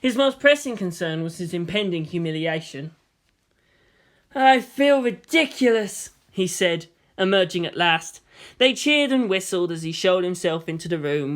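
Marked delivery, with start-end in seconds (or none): 4.3-6.1 sheepish Makoto. Acted. Embarrassed Makoto in costume.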